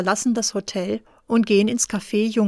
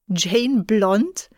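"Jane Blond?" echoed with a rising, amused tune; amused disbelief. Acted. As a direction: throw the name back incredulously. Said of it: "Dann lacht sie". (ungläubig-amüsiert nachgefragt)

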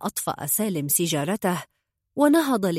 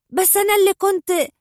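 much higher, louder cry of protest; a boy near tears insisting; upset child; 12 semitones higher, 6 dB louder than usual. A narrator's reading. Boy cut off while insisting to father, higher and louder.

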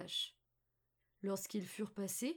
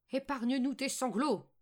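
put-on old witch; 4 semitones higher, 6 dB louder than usual. A narrator's reading. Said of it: "dit la vieille".

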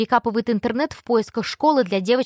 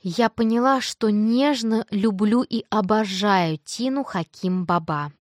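usual speaking voice

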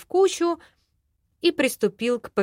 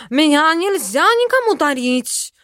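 loud, high outcry; loud indignant exclamation; exclaiming; 7 semitones higher, 8 dB louder than usual. Acted. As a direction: protest loudly at being given away. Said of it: "воскликнул Филя".

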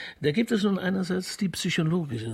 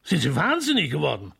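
outraged; 5 dB louder than usual. Acted. Boss hears Schulz rents a suite.

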